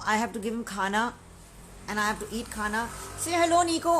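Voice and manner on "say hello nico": high, sing-song puppy talk; coaxing the puppy. Real, not acted. Owner coaxing her puppy to say hello, in high sing-song puppy talk. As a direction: raise your voice to coax the dog.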